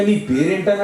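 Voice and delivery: high, innocent asking of the name; innocently asking. Retold or imitated. God innocently asking Jacob his name, high and wide-eyed. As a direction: ask his name as if you truly don't know. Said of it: "మరి దిగొచ్చి అమాయకంగా".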